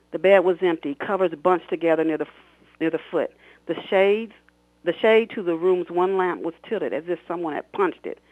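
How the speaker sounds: expressive read-aloud of her own novel; story narration. A narrator's reading. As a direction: read it like an audiobook, voicing the characters. Author reads novel excerpt aloud.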